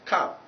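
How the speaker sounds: "come" with an open "uh", like "kahm"; correct vowel ten. Shown as a demonstration. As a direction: say "come" unrounded and short.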